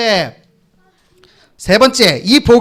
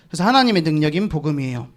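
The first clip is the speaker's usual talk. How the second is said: quiet repeat; 7 semitones lower, 7 dB quieter, faster than usual. Shown as a demonstration.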